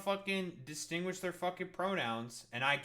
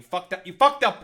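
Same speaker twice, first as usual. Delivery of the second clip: much louder, teasing outburst; mock angry yell; 3 semitones higher, 13 dB louder than usual. Real, not acted. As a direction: yell it like he ruined the bit. Yelling at co-host for mistake.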